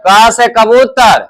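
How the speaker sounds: क से कबूतर said slowly and deliberately; slow model phrase. Shown as a demonstration. Teacher models male and female words, slow. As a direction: spell it out for the class. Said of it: "teacher models phrase for pupils".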